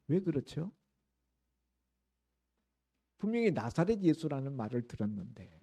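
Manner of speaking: ordinary talk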